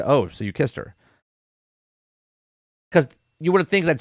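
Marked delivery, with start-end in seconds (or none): 0.1-0.9 imitating a calm remark, low and soft; mildly put, lower and softer; pretty calm. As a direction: quote it quietly, not too mad. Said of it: "he says it pretty calm".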